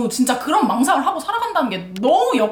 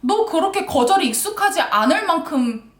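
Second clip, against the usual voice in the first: emphatic retold tirade; scolding; 3 semitones higher than usual. Woman scolding a man who can't take rejection, retold tirade. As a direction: act out chewing someone out. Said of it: "이러면서 내가 막 뭐라 그랬어".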